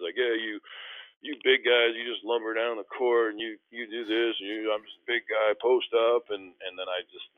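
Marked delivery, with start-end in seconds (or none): 0.2-6.3 mocking big guys. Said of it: "he was making fun of big guys".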